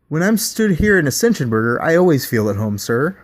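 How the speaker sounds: bright high customer-service lilt; chirpy fast-food pitch; scripted burger mascot. Acted. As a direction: sell the creepy creed with a smile. Burger bot answers.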